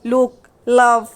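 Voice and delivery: लुक, लव said slowly with the ल sound clear; slow example words. Shown as a demonstration. Teacher modelling लुक, लव slowly for students. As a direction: draw out लुक and लव for the learners. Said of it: "लाम वाली".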